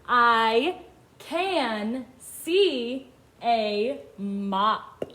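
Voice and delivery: very slow, separated words; each word stretched with a gap after; word-by-word reading. Shown as a demonstration. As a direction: read it out slowly for beginners to follow. Children read along.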